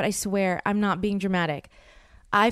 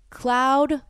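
excited; 5 semitones higher than usual. Real, not acted. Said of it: "I am so excited".

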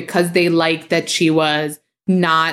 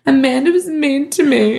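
higher whiny little-sister voice; mock her tattling like a kid; whiny sister impression; 7 semitones higher than usual. Host mocking her sister tattling to mom, whiny. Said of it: "She's like".

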